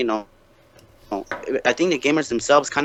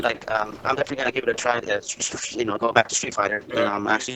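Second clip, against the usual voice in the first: muffled, washed-out phone line; washy phone audio; 6 dB quieter than usual. Real, not acted. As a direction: sound smeared like a bad connection. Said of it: "you got a little washy again".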